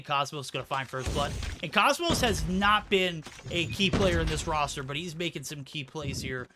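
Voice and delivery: lively play-by-play commentary; esports caster. Acted. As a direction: call the match live. Live play-by-play casting.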